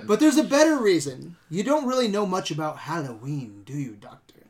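lightly imitated villain monologue; a hint of a lecturing cult leader; Connell Cochran. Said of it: "Connell Cochran's evil cult speech".

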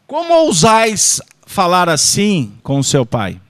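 hammed-up scolding for a live audience; mock lofty rebuke. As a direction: scold like a stage king, half in jest. Mock archaic rebuke, repeated.

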